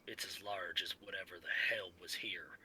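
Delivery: hushed, breathy whisper. Acted. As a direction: whisper it like you're hiding. Character reporting by radio, whispered.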